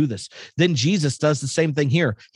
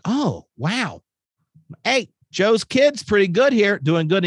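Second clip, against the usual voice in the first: mock-impressed villagers, higher; hammed-up hometown crowd praising the local kid; impressed townsfolk; 6 semitones higher than usual. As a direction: townsfolk mildly impressed, pitched up.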